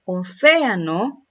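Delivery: Océano drawn out, leaning loudly on "cé"; stress on first E. Shown as a demonstration. Teacher has students listen for the accent, "cé" stressed in Océano. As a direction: stretch and punch "cé" in Océano. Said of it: "A ver, escucho".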